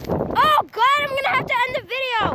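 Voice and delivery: fast, high panicked rush. Real, not acted. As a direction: rush the words in alarm. Panics, phone may be ruined.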